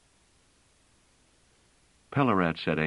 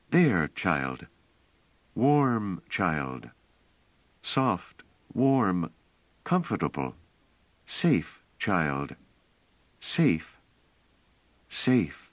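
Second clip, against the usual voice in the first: gentle, coaxing reassurance; calm the little one, word by word; soothing a frightened child; 2 semitones higher, much slower than usual. Acted. Bliss comforting the scared child, tenderly soothing.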